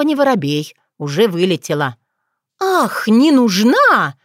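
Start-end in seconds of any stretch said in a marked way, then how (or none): 2.6-4.1 loud, slow, hurt outcry; deeply insulted; offended exclamation. Acted. Otrada hurt by Bogdan's remark, offended outcry. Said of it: "воскликнула Отрада".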